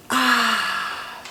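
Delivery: long audible sigh out; big exhaling sigh. Shown as a demonstration. Demonstrating four square breathing, one big sighing exhale. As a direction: let all the air go in a sigh. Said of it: "big sigh, exhale".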